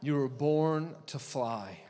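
slow, loud preaching build; booming motivational speech. Acted. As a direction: proclaim it, rising. Preaching climax.

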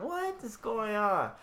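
drawn out in disbelief; confused. Retold or imitated. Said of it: "And she was like".

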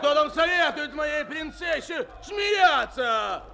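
furious shouted threats. Acted. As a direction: chase the boy off in a rage. Merchant threatens the boy. (яростная угроза)

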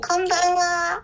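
sweet coaxing voice; cat-purring voice. Real, not acted. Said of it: "猫なで声をやめられないものです".

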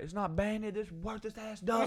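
imitated disgust. Hunter tossing away a duck, mock disgust. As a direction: mimic a hunter fed up with his catch.

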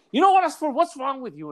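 high, loud opening, comically fed up; mock exasperation. Client fed up with a guest refusing food, exasperated. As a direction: imitate a client losing patience. Retold client losing patience.

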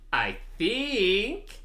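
crude mock Mexican accent, "think" stretched to "theenk"; imitated Mexican accent. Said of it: "the sum total of his accent was an elongated E in think".

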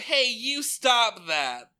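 loud, high, slow warning; hammed-up yell; mock shout. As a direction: yell it like a scold. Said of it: "Veronica's like".

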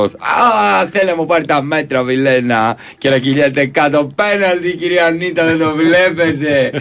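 high, pleading complaint to the referee; whiny diver voice. Retold or imitated. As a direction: whine like a player begging for a penalty. Mocking a diving player to referee.

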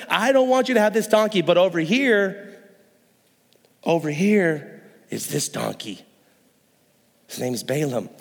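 steer them to the other one; sly donkey owner. Retold or imitated. Owner steering toward worse donkey.

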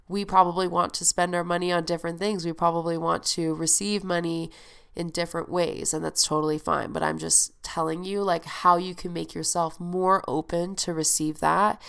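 nasal, blocked-nose voice; stuffy nose. Real, not acted. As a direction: talk through a stuffed up nose. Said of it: "my nasally voice".

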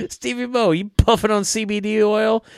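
high-pitched, teasing heckle; high mock-incredulous quote; Carl Anderson. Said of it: "Carl Anderson".

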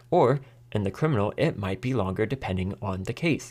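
hint of a recorded intercom voice reading the rules; robot lady on intercom. Juror retelling the intercom robot lady, mock automated voice. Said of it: "a robot lady on the intercoms".

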